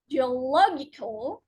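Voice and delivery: geoLOGical, weight on LOG; stress before suffix. Shown as a demonstration. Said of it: "the syllable just before the suffix".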